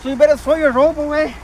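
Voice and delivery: sci-fi trailer narrator. Pretend. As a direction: boom every line like an epic movie trailer. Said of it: "I sound like a sci-fi movie trailer narrator".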